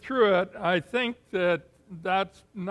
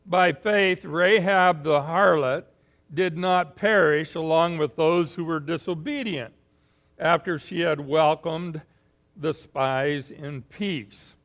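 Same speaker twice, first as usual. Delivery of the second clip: scripture reading. Shown as a demonstration. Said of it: "says it this way".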